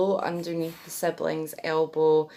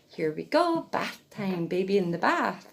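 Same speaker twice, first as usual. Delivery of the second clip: put-on baby talk; 2 semitones higher than usual. Shown as a demonstration. Mum lowering her baby into the bath, baby talk. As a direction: coo the baby into the water. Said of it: "Place them in the water".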